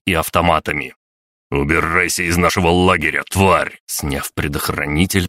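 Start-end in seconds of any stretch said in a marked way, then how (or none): 1.5-3.8 прорычал. Acted. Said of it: "прорычал Роберт".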